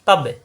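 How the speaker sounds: তাব্বে with a bounced, echoing b; short তাব্বে, popping release on the b; qalqalah bounce. Shown as a demonstration. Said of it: "কলকলা".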